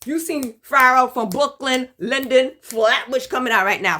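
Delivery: slow, loud, streetwise swagger; a touch of Brooklyn hood; tough Brooklyn attitude. Retold or imitated. Warning the doctor she means business, with mild Brooklyn swagger. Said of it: "I had to go hood".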